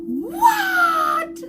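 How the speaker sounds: squeaky high gasp of disbelief; shocked what. Real, not acted. Mother hearing her son can eat, a squeaky shocked what.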